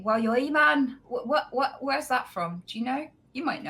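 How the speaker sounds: put-on thick northern English accent. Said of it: "he had such a thick accent".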